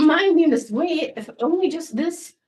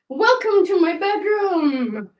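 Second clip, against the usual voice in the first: hostess welcome; 4 semitones higher, 3 dB louder, slower than usual. Pretend. Mock host greeting.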